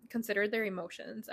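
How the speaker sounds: breathless, gasping between words; out of breath. Real, not acted. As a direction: talk while short of breath. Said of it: "cannot catch my breath right now".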